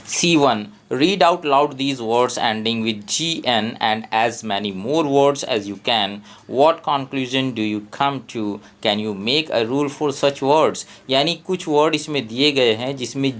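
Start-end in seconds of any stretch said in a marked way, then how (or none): 0.1-10.8 slow, deliberate reading of exercise instructions; slow textbook reading. Acted. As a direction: read each question out slowly, word by word, like dictation for a class. Reads textbook questions aloud.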